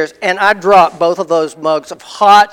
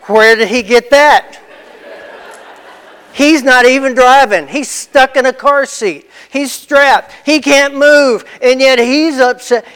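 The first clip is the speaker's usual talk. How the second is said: incredulous thought; 4 semitones higher than usual. Retold or imitated. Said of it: "And I think".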